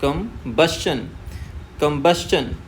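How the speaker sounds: कम्बस्चन stressed from the बस, slow start; teacher models stress on बस. Shown as a demonstration. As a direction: lean on the बस in कम्बस्चन. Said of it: "B से stress शुरू करना है".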